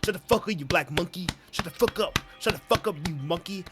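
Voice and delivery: loud, high repeated shouting down; angry yelling. Acted. Streamer yelling at a game character to shut up. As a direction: shout her down hard.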